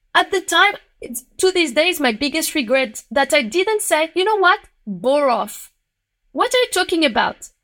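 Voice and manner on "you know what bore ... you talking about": high-pitched imagined comeback; indignant retort. Retold or imitated. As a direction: push back indignantly, pitch jumping up. Imagined retort to discouraging supervisor.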